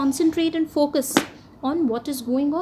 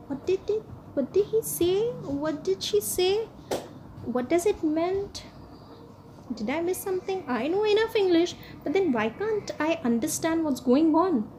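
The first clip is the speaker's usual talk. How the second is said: puzzled questions pitched higher; confused learner; 4 semitones higher, 3 dB quieter than usual. Pretend. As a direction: sound lost, asking what they just missed. Voicing a confused learner listening.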